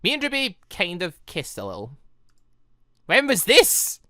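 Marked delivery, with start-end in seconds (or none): 3.1-4.0 high, eager question; excited surprise. Real, not acted. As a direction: pounce on the news. Reacting to kiss confession.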